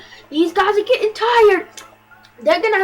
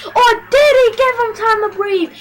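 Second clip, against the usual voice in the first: surprised call; 5 semitones higher, 6 dB louder than usual. Real, not acted. Sudden twist in play.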